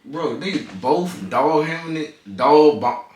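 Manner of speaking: retainer in, slightly slurred words; talking around a retainer; wearing a retainer. Real, not acted. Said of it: "I got my retainers in".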